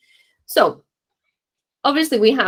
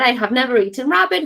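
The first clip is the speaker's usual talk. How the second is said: quick, matter-of-fact; 3 semitones higher, faster than usual. Shown as a demonstration. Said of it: "It's just something that I'm saying".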